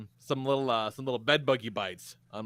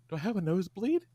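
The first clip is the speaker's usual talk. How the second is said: calm question; 5 semitones higher, faster than usual. Retold or imitated. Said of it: "And he's very calm".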